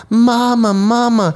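high, loud wailing for mama; dad imitating his crying son calling for mom; crying toddler. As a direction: cry out like a sobbing toddler. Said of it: "he goes".

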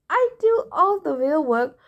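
a touch of indignant protest; demanding. A narrator's reading. George the snake grumbling to Martha, mildly demanding. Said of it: "George demanded".

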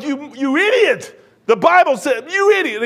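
high-pitched mock outburst; retold angry yelling. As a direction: re-enact losing it at the man. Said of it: "once I started yelling, I couldn't stop".

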